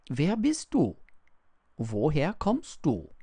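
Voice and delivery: high, loud astonished questions; puzzled questioning. A narrator's reading. Shepherd questions the strange child from the mountain, astonished. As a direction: demand answers in bewilderment.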